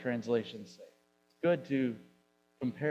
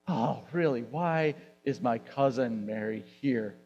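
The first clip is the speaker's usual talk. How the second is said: wrong frustrated tone. Shown as a demonstration. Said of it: "No, that's not, not the tone".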